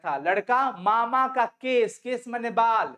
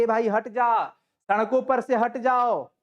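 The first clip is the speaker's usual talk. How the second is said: lovingly. Retold or imitated. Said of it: "बड़ी प्यार से वे सब कहते हैं".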